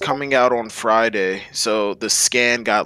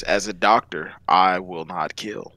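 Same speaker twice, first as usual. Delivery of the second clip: quoting Law; 6 semitones lower than usual. Retold or imitated. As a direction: drop the voice and make it a grave promise. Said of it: "he even said it in recent chapters".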